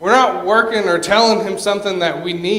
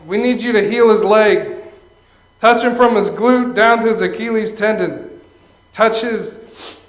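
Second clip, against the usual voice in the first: instructor's guide prayer; 4 dB louder than usual. Retold or imitated. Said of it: "the instructor's guide is the one where it's like".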